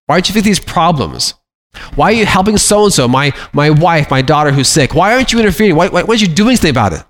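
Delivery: mock a frustrated believer nagging God; complaining prayer. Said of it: "Those are complaints".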